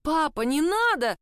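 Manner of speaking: high, loud desperate cry. A narrator's reading. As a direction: cry out to stop father. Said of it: "вскрикнуть Элизабет". (отчаянный вскрик)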